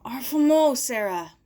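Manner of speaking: a loud puffed-out gasp; panted. Acted. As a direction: gasp it out of breath. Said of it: "she panted".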